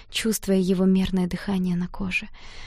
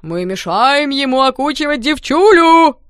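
slow, loud, higher leering shout; boy jeering at the couple, loud and cheeky; 6 semitones higher, 10 dB louder, slower than usual. A narrator's reading. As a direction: drag it out mockingly, loud. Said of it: "фривольным тоном заявил".

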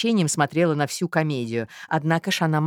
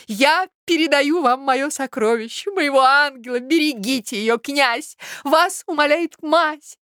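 a mother nobly handing over her daughter; solemn mother; 7 semitones higher than usual. Acted. Mother's solemn theatrical speech.

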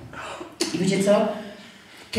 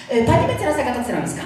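slightly raised, quick, polite phone greeting; pleasant caller's voice; 4 semitones higher, faster than usual. Retold or imitated. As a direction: imitate a courteous official calling. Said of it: "takim przyjemnym w ogóle głosem".

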